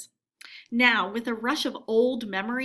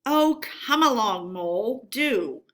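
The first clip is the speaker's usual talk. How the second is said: a light, cheery call, louder; breezy and unbothered, calling back; cheerful Rat; 5 dB louder than usual. Acted. Rat calls back cheerfully to Mole, not stopping. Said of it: "replied the rat cheerfully".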